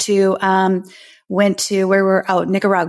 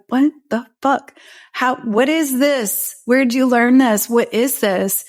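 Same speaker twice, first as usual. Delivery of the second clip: higher, imitating her stunned self; mild mock astonishment at the friend, pitch raised; amazed disbelief; 4 semitones higher than usual. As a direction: blurt it out in wide-eyed wonder. Retold amazement at breathwork.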